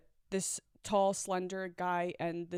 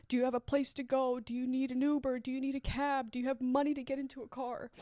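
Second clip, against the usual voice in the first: urgent concern; 5 semitones higher than usual. Retold or imitated. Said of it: "Girl keeps asking me".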